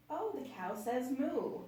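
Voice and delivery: calm comment. Shown as a demonstration. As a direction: say it slowly, as a comment. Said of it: "you can say".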